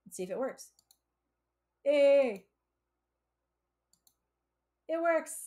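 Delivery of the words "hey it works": delighted cheer of success; loud happy exclamation; excited. Real, not acted. Code runs successfully.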